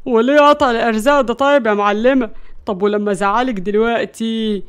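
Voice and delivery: mildly irritated protest; a touch of resentful complaint; exasperated. Acted. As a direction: grumble back, thwarted. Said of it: "فقال بغيظ".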